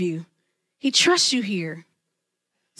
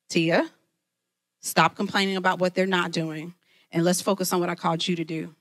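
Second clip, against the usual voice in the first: God's voice; 6 semitones lower than usual. Retold or imitated. God's voice correcting her.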